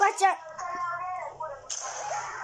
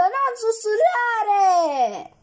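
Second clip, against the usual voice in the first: exasperated scolding; much slower than usual. Real, not acted. Gamer telling a teammate to stop whispering, exasperated.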